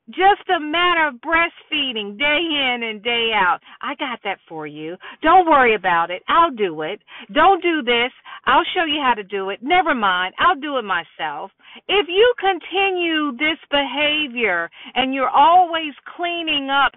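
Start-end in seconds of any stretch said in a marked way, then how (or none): 3.8-11.5 put-on quick, lower, brushing the child aside; hurried taking over. Mother doing everything for her son, hurried. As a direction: rattle it off like an over-helpful parent.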